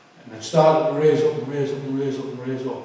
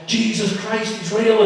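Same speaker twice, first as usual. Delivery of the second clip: re-enacted excited high cry; high-pitched, insistent burst of revelation; manic new believer; 8 semitones higher, slower than usual. Convert answering baffled prison officers, manic and high. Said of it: "like an absolute loony".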